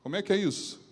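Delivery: pergunta incrédula, mais aguda; indignação brincalhona. Acted. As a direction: um tom de quem não acredita. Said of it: "É a ideia assim". (Jesus incrédulo com Filipe, em tom de brincadeira)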